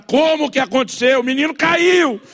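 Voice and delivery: high, incredulous yell, stretched at the end; exasperated inner scream. Acted. Father silently raging at mother's question, exasperated yell. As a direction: cry out the bottled-up protest. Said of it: "tudo dentro de mim quer gritar".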